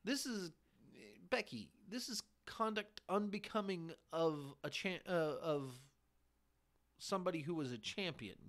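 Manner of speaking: mock chairman scolding the three women, lightly voiced; imitating Vince McMahon. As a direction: play the pompous chairman, half-hearted. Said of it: "he's like".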